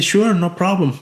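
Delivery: a high, bright quick yes; eager agreement. Retold or imitated. Retelling how he told the owner yes, eagerly. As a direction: jump at the offer, mildly played.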